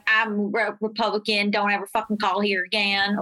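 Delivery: lightly voiced Republican man; a hint of a male caller telling her off; imitated male voter. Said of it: "that was, like, a male accent".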